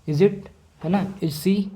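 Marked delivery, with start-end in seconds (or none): 0.1-0.3 "Is it" rising at the end; rising question tone. Shown as a demonstration. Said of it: "rising tone को use करते हैं". 1.2-1.6 "Is she" lifting at the end; rising question tone. Shown as a demonstration. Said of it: "इस तरीके से".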